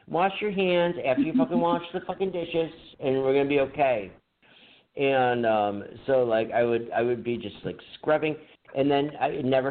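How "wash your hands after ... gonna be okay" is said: imitating his cheap boss. Dishwasher imitating his cheap boss ordering him around. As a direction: play the cheap restaurant owner snapping at staff. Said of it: "that's how she talked".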